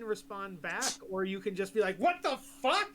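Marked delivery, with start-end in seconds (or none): 2.0-2.9 high, loud disbelief, played for laughs; mock shocked outburst. Game master showing a player one possible reaction, mock shocked. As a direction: burst out as if startled.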